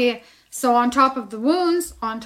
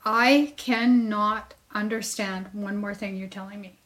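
fed up. Retold or imitated. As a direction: spell it out, at the end of your rope. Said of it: "I was done".

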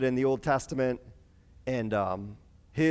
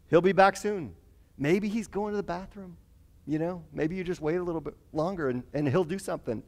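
mocking; 4 semitones higher than usual. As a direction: feign helpful suggestions to needle them. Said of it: "he just starts mocking them".

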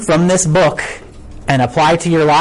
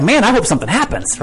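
excited; 3 semitones higher than usual. Acted. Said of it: "now he's all excited".

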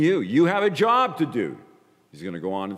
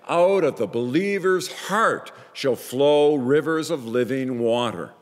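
mildly raised cry to a crowd, easing towards the end; 3 semitones higher than usual. Acted. Preacher voices Jesus crying out at the festival, crying out. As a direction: proclaim scripture in a raised, ringing preacher's voice. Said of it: "he cried out, here we go".

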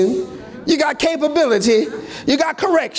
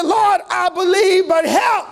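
crying out; 5 semitones higher than usual. Acted. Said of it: "And he's crying".

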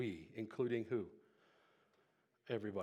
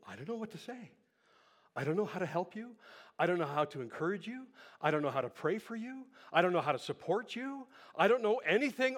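loud, insistent list building higher; exasperated helplessness; 5 semitones higher, 6 dB louder than usual. Acted. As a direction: pile up each admission, louder towards the last. Voices someone at a loss to help.

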